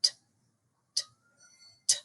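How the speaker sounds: crisp t, t, t with the tongue tip; short tongued t syllables; tongued t sounds. Shown as a demonstration. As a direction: tap t- on the back of the teeth. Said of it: "just like we say".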